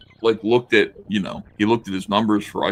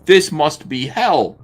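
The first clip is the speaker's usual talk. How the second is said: mock despair; 5 semitones higher, 6 dB louder, slower than usual. Voicing a comic character.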